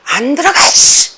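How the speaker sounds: mock exasperation, kept under full voice; irritated scolding. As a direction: scold a loitering student through a hissed curse. Teacher losing patience with lingering student.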